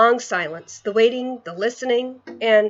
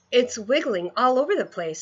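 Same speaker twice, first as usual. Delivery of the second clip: cried; 3 semitones higher than usual. Acted. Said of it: "Sophie cried".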